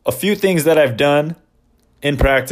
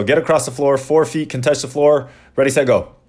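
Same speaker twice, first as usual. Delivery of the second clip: rattled off fast. Shown as a demonstration. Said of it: "I say it really fast".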